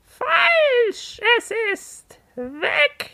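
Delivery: high squawked verdict; parrot squawk. Acted. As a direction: squawk the word out. Parrot declares answer wrong.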